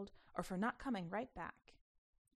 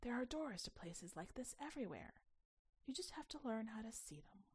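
a mysterious guide whispering; whispered secret; 3 semitones higher, 7 dB quieter than usual. Acted. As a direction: let her in on a secret. Jedi girl's note, whispered.

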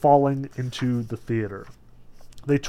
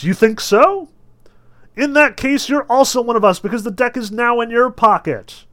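high, raised theatrical comeback; showman's retort; 9 semitones higher, 7 dB louder than usual. A narrator's reading. Fagot answering a heckler in the gallery, loud retort. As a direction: throw it back loudly at the heckler.

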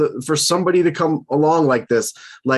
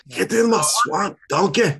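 slow, lightly voiced ogre with a higher lift; Shrek impression; 5 semitones higher than usual. Joking about Luke Voit heading to Washington in a slow ogre voice. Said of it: "I guess Luke Voit is gonna say".

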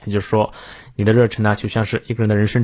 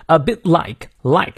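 "like" stressed, phrase pitched higher; 4 semitones higher, slower than usual. Shown as a demonstration. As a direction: lean firmly on "like". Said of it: "like要重读".

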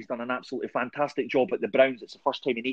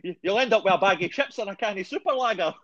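laughing; 5 semitones higher than usual. Real, not acted. Joking about Scottish accent.

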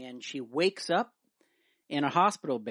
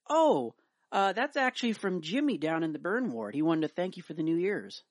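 nurse's voice; 5 semitones higher than usual. Acted. Nurse delivers punchline.

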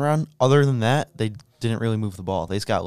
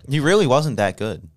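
laughing; 3 semitones higher than usual. Real, not acted. Laughing at his friend's claim.

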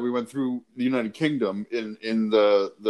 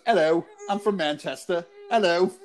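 bad British accent; 4 semitones higher than usual. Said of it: "British accent".

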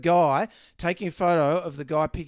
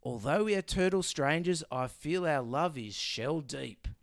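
slow, soft, low mock-romantic line; 4 semitones lower, 5 dB quieter, slower than usual. Co-host reads the tortoise's love line in slow, low mock-romance. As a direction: croon it like a lovesick tortoise. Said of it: "And he says".

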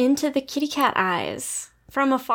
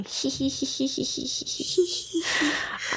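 soft, drawn-out hee-hee giggle; smiling breathy laugh; 2 semitones higher, 5 dB quieter than usual. Shown as a demonstration. Showing the co-host a laugh you can barely hear, soft giggle. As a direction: let a long quiet titter run on. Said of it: "I'm smiling".

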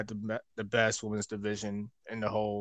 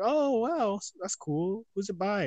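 excited high voice; 10 semitones higher, slower than usual. Retold or imitated. Imitating wrestlers receiving gift.

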